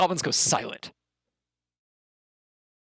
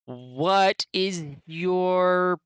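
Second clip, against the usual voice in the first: goblin greeting; 3 semitones higher, much slower than usual. Acted. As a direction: greet the strangers like a slow, odd goblin. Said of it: "you hear the goblin".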